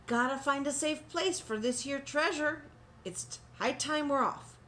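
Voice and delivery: pirate announcement. A narrator's reading. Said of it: "he announced".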